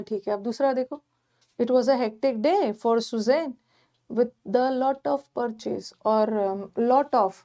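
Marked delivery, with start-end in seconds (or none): 1.6-5.9 reads the sentence out very slowly, word by word; slow reading aloud. Shown as a demonstration. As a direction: read the option for the class. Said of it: "reading the sentence aloud". (वाक्य को बहुत धीरे-धीरे पढ़कर सुनाना)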